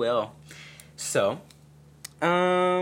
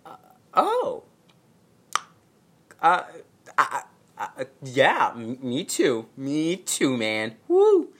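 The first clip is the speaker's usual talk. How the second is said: stammering, then squeaky forced cheer; mock-awkward me too; awkward fake enthusiasm; 2 semitones higher, 5 dB louder than usual. Awkward reply to boyfriend's affection.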